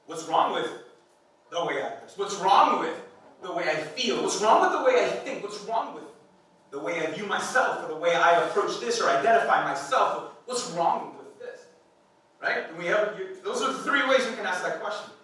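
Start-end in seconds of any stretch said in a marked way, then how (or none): 0.1-11.7 defensive arguing. Retold or imitated. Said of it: "It's like".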